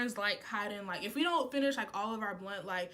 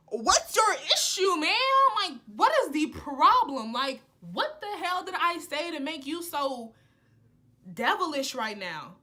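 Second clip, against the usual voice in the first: laughing confrontation; 3 semitones higher, 5 dB louder than usual. Retold or imitated.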